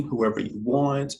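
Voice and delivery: ordinary talk, nothing marked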